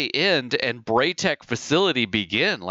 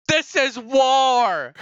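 higher, very slow, hammed-up doom; mock ominous reply; 10 semitones higher, 3 dB louder, much slower than usual. Imitating the guy outside answering the homeowner. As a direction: parody the alien's verdict, drawn out. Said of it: "And the guy outside going".

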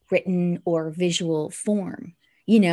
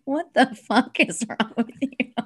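mock family reaction; 4 semitones higher than usual. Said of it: "my whole family was like".

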